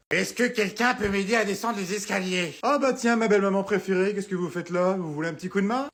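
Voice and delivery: put-on high, quavering old lady calling. Mother-in-law asking for help down the stairs, high-pitched.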